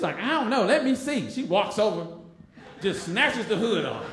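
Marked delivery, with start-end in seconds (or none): 0.2-1.3 a touch of pushy Tracy. Retold or imitated. Aggressive Tracy.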